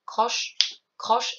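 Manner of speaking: croche placed on the offbeat after a silent beat; rest then croche. Shown as a demonstration. Teacher showing the offbeat rhythm. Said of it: "si vous arrivez à faire".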